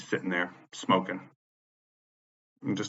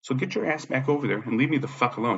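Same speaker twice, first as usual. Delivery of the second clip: raised-pitch cautionary threat; retold stern warning; 6 semitones higher than usual. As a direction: replay warning her off, pitched up. Retelling his warning to attacker.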